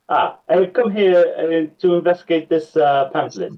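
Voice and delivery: a hint of the grand bard. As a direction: bard presenting the pamphlet, lightly voiced. Player voices his bard character.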